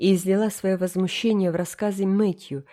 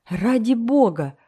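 gasp; 4 semitones higher, 4 dB louder, slower than usual. Acted. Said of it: "ахнула Марила".

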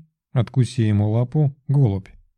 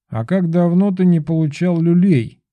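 higher, louder furious pigeon; angry threat; 7 semitones higher, 3 dB louder than usual. A narrator's reading. Gaspar the familiar threatening Belov, angry. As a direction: threaten him with a beating. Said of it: "разозлился Гаспар".

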